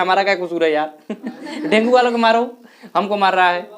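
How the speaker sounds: laughing through a lightly acted grievance; mock complaint, laughing. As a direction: playfully protest as the wronged platelet, chuckling. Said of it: "कह रहा है".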